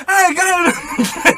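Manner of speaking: put-on high, childish tantrum yell; screaming like a child. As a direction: shriek it like a kid throwing a fit. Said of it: "screaming like a child".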